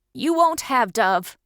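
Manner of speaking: slow, forced through the teeth; gritted out. Acted. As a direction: grind each word out in defiance. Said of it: "Dad gritted out".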